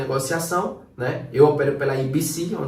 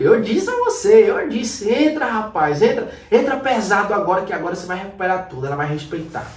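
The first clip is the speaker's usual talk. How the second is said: little devil; 2 semitones higher than usual. Retold or imitated. The little devil urging the trader to go all in, mildly sly. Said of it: "Aí o capetinha fica".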